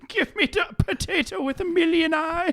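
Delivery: high put-on voice; high mock old-timer; old-timer customer. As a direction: demand it like a grizzled regular. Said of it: "Sonny Jim".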